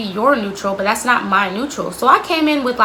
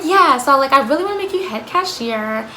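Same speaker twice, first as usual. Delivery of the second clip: put-on baby-talking boss; 4 semitones higher than usual. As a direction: coo at her like she's a toddler. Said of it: "stop this baby talk".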